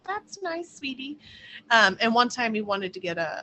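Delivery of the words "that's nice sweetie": indifferent. Retold or imitated. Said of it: "I'd be like".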